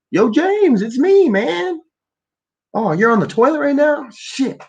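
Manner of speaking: very high, calling out from afar; high calling ghost. Pretend. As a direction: call to James as a floating ghost.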